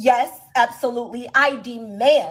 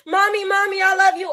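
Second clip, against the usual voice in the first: put-on clingy child voice; 6 semitones higher than usual. Mom voicing her clingy child.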